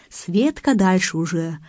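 ordinary delivery

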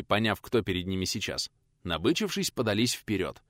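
ordinary delivery, nothing marked

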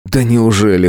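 scoffing. Acted. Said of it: "хмыкнул я".

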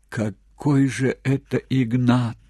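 slow, breathed-out exclamation. A narrator's reading. Old woman realising the stranger is not her husband, breathed out. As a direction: let it out on one long breath. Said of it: "выдохнула Фитинья наконец".

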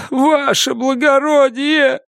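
high, slow desperate plea; begging prisoner. A narrator's reading. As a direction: cry out for mercy.

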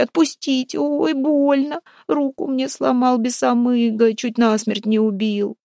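high-pitched, wailing lament; shrieking plea. A narrator's reading. Wife begs husband to let her go, shrieking plea. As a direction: beg and complain in a high wail. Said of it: "верещала пленница".

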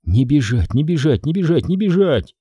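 Jenny screaming at Audrey for the keys; panicked cry. Acted. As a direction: urge yourself, then yell for the keys. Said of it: "крикнула она".

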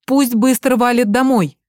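mother yells down the phone to send daughter home; shouting. Acted. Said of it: "крикнула Света". (крик в трубку)

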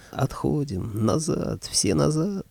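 rising shout calling troops back; shouted order. Acted. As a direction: yell the retreat, climbing. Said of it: "я заорал".

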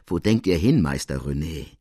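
put-on old lady laughing off a lavish present; graceful teasing. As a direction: fend off the gift with a smile in the voice. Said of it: "erwiderte die Scuderie anmutig scherzend".

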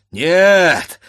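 wounded fighter refusing to give up; wounded husband shouting his defiance; defiant shout. Acted. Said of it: "закричал он".

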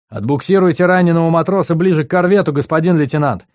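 officer barking an order at the lieutenant; commanding. A narrator's reading. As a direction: give the order crisply. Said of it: "скомандовал".

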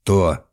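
То pressed hard and loud; emphatic. A narrator's reading. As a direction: lean heavily on То. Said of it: "с нажимом произнёс".

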